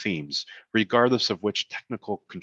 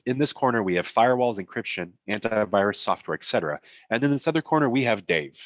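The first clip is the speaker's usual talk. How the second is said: ring announcer; 3 semitones higher than usual. Retold or imitated. Reads boxing-style comic caption.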